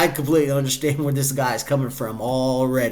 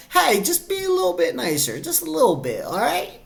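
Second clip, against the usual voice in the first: calming partner; 12 semitones higher than usual. Retold or imitated. Partner keeping angry driver in check, high mock coaxing. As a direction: coax sweetly in a put-on high voice. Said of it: "that person there beside you to keep".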